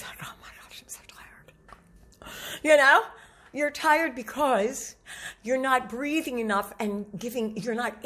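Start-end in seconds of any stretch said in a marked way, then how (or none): 0.0-2.3 exhausted whisper. Acted. Coach acting someone tired at day's end, exhausted whisper. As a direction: whisper it as if utterly spent.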